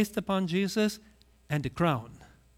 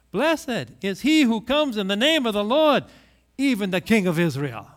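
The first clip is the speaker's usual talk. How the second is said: crowd crying out; 3 semitones higher, 6 dB louder than usual. Acted. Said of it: "the people cry out".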